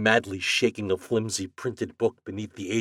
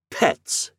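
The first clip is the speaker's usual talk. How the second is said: sarcasm; 4 dB louder than usual. Acted. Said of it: "spoke slowly but with intense sarcasm".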